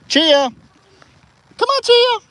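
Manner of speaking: loud high call. Real, not acted. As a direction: shout her over from across the field. Calling animal from afar.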